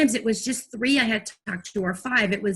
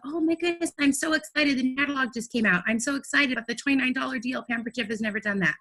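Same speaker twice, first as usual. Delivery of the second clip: excited sales pitch; 2 semitones higher than usual. Shown as a demonstration. Rep shares the new catalog deal, lightly excited. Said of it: "really and truly be excited".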